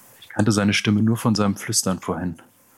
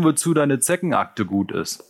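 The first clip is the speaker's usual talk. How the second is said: high, loud and taunting; loud mocking call; 6 semitones higher, 4 dB louder than usual. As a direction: egg the gang on, loud. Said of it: "rief der Anführer".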